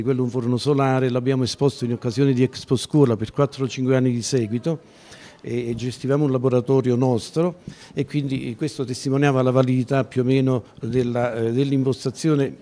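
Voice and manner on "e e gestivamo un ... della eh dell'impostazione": tongue sticking in a dry mouth; speaking with a parched mouth. Real, not acted. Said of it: "mi si è attaccata alla lingua". (bocca secca, lingua impastata)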